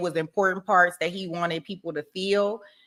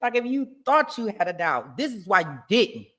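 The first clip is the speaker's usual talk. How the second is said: mock closing argument; 3 semitones higher than usual. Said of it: "I'ma do the next closing".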